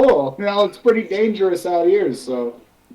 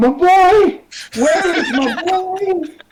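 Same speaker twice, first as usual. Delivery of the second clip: very high, drawn-out call carrying far; 10 semitones higher than usual. Playing a father searching the streets for his son: calling out loudly. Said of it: "I'm calling out".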